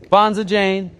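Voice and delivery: high, loud cheer of approval; delighted praise. A narrator's reading. Teacher congratulates Jane on her word, delighted.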